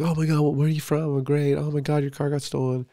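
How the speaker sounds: a hint of fawning party girls; mock excited girls. Retold girls gushing at strangers.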